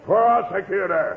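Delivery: Prosecutor slow and loud, each syllable hit; indignant correction. Acted. Prosecutor correcting Kingfish, slow loud indignant word. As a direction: correct him with offended emphasis.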